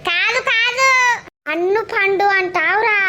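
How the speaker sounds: lightly voiced old woman, offended and scolding; a hint of a cranky granny snapping back at the boy; indignant old woman.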